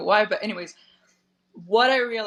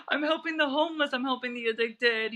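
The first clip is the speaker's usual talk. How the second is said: excited friend; 6 semitones higher than usual. Retold or imitated. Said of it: "It's like".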